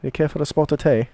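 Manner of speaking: badly faked British accent; terrible British accent. Teasing the Brits he loves, in a terrible British accent. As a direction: attempt a British accent, not very well. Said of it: "with my terrible accent".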